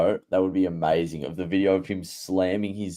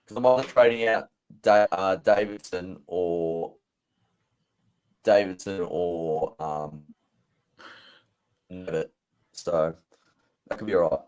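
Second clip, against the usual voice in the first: choppy, slowed call audio breaking up; like a bad connection dropping out; glitching audio. Real, not acted. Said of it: "You're glitching out a bit".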